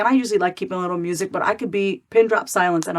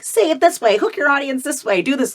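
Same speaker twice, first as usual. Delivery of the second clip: higher, lightly mocking coach voice; parroting pushy marketing advice; 7 semitones higher than usual. Mocking the marketing rules she was taught, lightly higher. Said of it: "We've been taught so much".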